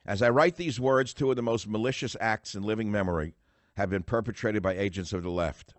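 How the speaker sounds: emphatic, forceful read-aloud; book reading. Real, not acted. Radio host reading his forthcoming book to listeners, emphatic read-aloud. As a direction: read your own written words out with punch.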